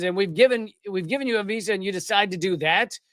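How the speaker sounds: lightly mocking Southern twang; Marco Rubio. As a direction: quote it with a slight Southern accent. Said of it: "I added the slightly Southern accent".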